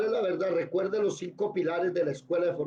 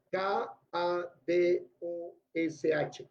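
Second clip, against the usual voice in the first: letter by letter, slowly; spelling out; much slower than usual. Shown as a demonstration. Teacher dictating a Hebrew word to students, slow spelling. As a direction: spell it at dictation pace, a gap after each letter.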